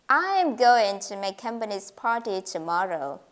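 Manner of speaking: "I" stressed, the rest falling away; focal stress on I. Shown as a demonstration. Teacher showing that I will go, not you, stress on "I". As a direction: hit "I" and let the rest follow evenly. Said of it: "When you particularly emphasize the word".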